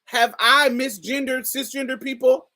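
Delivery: usual speaking voice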